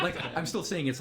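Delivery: laughing. Real, not acted. Laughing while defending the movie.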